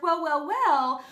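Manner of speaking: chirpy bird. Acted. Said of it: "he chirped".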